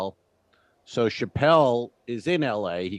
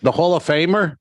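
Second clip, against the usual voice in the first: higher-pitched indignant disbelief; incredulous; 7 semitones higher, 4 dB louder than usual. Real, not acted. Co-host hears a Hall of Famer got bunk beds, incredulous. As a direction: exclaim it in outraged disbelief. Mock outrage at bunk bed arrangement.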